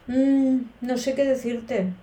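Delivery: slow, hesitant "mm, no sé qué decirte"; doubtful mm. Shown as a demonstration. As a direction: hum with doubt before answering. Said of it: "para expresar una duda". (duda pensativa)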